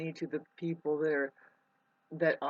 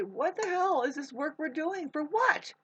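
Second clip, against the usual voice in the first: fed-up outburst; 3 semitones higher than usual. Retold or imitated. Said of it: "Drop it all and just say".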